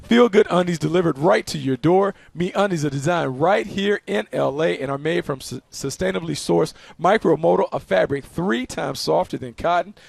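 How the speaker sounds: upbeat radio ad read. Acted. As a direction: sell it like a host-read spot. Reads the sponsor ad.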